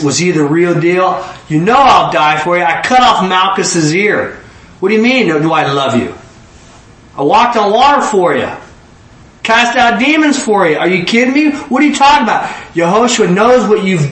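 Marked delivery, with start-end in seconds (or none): 1.5-12.5 indignant Peter, rising higher as he goes; Peter protesting. Acted. Peter insists to Jesus he's proven his love, rising indignation. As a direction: play Peter, offended he's being asked.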